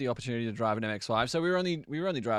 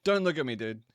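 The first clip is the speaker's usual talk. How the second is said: indignant lizard; 5 dB louder than usual. Acted. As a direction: lightly voice a lizard objecting to being watched. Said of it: "That's a lizard saying".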